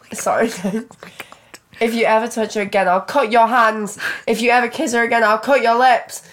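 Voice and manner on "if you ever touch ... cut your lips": loud furious threats, pitched up; yelling. Acted. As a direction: yell the threats with building fury. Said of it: "he yells".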